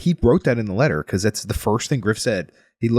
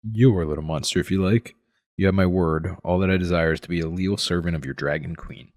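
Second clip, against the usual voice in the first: reading aloud. Acted. Reads the book passage aloud.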